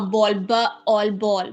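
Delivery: "बॉल" broken into "ब" and "ऑल", then joined as "बॉल"; word split into sounds. Shown as a demonstration. Teacher showing syllables in a word, "बॉल" split as "ब, ऑल" and rejoined. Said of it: "syllable सही तरीके से बोल".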